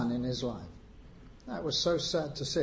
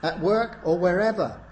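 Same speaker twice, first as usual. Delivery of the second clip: slow, louder and higher pretend verse; a raised mock quotation, slow; mock quote, raised; 5 semitones higher, 3 dB louder than usual. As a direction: ham up the false command. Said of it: "it doesn't say".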